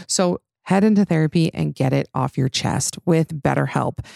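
smooth, measured sponsor read. Acted. Host pitching online therapy to podcast listeners, ad read. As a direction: read out the sponsor copy clearly and evenly.

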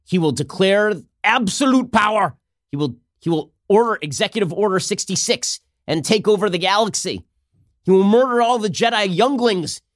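hammed-up doomsday warning; mock alarm. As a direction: raise the mock alarm, voice climbing. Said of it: "Democrats, on the one hand, were saying".

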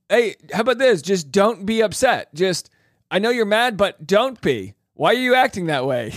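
high-pitched, hammed-up pleading; mock a man begging for calm; pleading boyfriend. Host mocks men placating an upset partner, pleading.

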